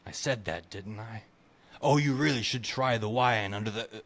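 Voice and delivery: lightly voiced tipsy lord; a hint of a rambling drunk noble; drunken viscount voice. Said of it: "I was really engaged by the Viscount's voice".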